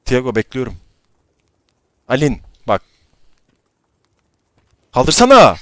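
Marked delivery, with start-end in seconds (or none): 4.9-5.6 shouting. Real, not acted. Yelling at teammate to revive.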